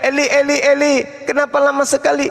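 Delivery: retold cry. Debater challenging opponent with the cry from the cross, mild mock yell. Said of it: "kenapa dia teriak".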